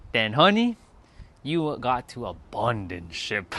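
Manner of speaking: put-on Caribbean accent. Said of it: "Her Caribbean accent".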